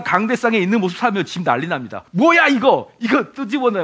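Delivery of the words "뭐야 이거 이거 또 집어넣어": high, sharp mock complaint; mock pastor grumbling at home. Pastor playing himself nagging his wife at home, mock irritated. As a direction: bark it like a fussy husband. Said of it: "막 이러면".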